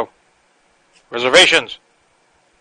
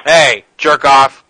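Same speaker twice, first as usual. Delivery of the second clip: loud rude greeting; 5 dB louder, much slower than usual. Acted. Prank caller insulting clerk.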